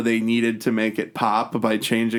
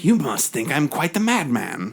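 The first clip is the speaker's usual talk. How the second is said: lightly put-on villain voice; a hint of theatrical madman; Malcolm McDowell impression. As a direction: quote a movie villain with relish. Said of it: "Malcolm McDowell is like".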